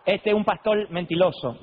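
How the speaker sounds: light mock Korean accent, r softened to l, slow; slow mock Korean accent accusing the liar. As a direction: imitate the Korean pastor scolding in a light Korean accent. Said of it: "agarró el micrófono coreano y dice".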